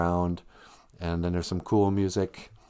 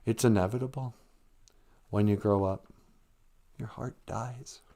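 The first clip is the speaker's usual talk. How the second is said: put-on gloomy goth girl; 5 dB quieter than usual. Goth girl telling the others they will grow up, mock gloom. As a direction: sigh it out like all hope is gone. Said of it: "she's just like".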